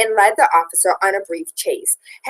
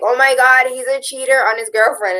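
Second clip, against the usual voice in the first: higher-pitched scandalized gossip; hammed-up outrage, pitched up; mock shock; 5 semitones higher than usual. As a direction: imitate people aghast at a scandal. Voices scandalized public reacting to cheating.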